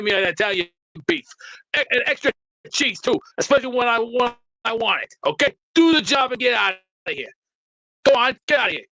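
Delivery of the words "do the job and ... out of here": shouting. Acted. Boss ordering someone out.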